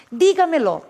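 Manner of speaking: Dígamelo stressed on DÍ, the fourth syllable from the end; model word Dígamelo. Shown as a demonstration. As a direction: say Dígamelo, hitting the first syllable. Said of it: "Então vejam, o verbo dígamelo". (Dígamelo com tônica na quarta sílaba)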